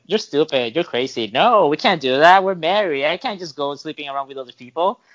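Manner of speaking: lightly voiced protesting wife; mildly mocking imitation of an objecting wife; wife's exaggerated voice. Husband quotes his wife's objection to sleeping around, lightly exaggerated imitation. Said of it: "I don't sound like this".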